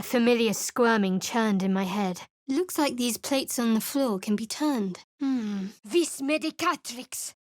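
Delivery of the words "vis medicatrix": higher, gentle invocation; spell incantation. Acted. Cleric healing a companion, focused invocation. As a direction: murmur the healing words with focus.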